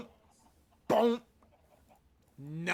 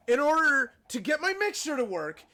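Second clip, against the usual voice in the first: exasperated rant; 5 semitones higher than usual. Real, not acted. Exasperated chain of requirements.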